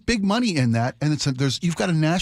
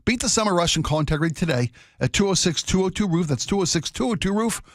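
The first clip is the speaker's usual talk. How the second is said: ad read. Acted. Live ad read.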